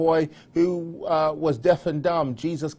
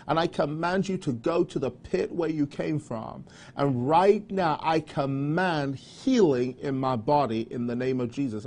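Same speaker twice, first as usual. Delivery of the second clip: commanding prayer. Shown as a demonstration. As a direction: declare healing over your body. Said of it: "just say".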